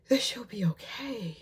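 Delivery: slow, hushed plea; whispered prayer. Real, not acted. Praying in the hospital for her friend, slow whisper. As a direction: breathe it like a desperate prayer.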